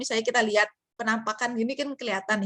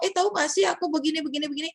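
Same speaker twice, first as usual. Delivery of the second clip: fast, high, chatty gossip; casual gossip; 6 semitones higher, much faster than usual. Retold or imitated. Student gossiping with her friend, quick casual high voice. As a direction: toss it off like gossip in the canteen. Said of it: "Tapi tadi dia ngomong".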